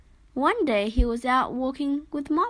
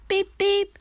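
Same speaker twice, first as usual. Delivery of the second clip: horn beep; 8 semitones higher, 5 dB louder than usual. A narrator's reading. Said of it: "said Landy".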